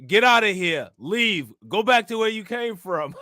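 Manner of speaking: hammed-up Staten Island yell, kicking them out; Staten Island accent. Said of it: "She got that Staten Island accent".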